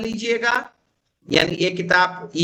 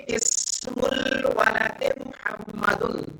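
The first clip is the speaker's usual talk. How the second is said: each Arabic word drawn out slowly for the class; slow Arabic reading; 5 dB quieter, much slower than usual. Shown as a demonstration. Teacher reading Arabic to his students, slow and clear. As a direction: read it out slowly like a teacher dictating. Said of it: "شروع میں دیکھیے".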